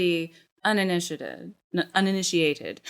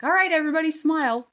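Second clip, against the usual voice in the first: Two Flower impression; 10 semitones higher, 4 dB louder, faster than usual. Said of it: "my best Two Flower impression".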